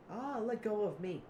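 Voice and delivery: high, loud cry of protest; hammed-up tackled shriek; acted struggle. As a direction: yell as if pinned and wrestling free. Acting out Zip being tackled.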